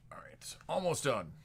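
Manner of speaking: real quiet whisper while busy. Real, not acted. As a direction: whisper it to yourself while working. Whispering while finishing the breaks.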